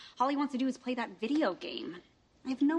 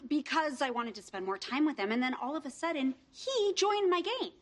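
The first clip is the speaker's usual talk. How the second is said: stuck high pitch. Acted. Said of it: "I'm gonna explain in my high-pitched, nervous voice".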